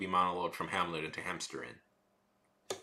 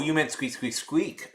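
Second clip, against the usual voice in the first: squeaky rubber duck; 8 semitones higher, 6 dB louder than usual. Acted. Squeak imitation.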